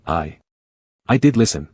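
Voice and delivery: small sobbing voice, halting; hesitant sob. Acted. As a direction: choke out the words through a sob. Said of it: "replied hesitantly through a sob".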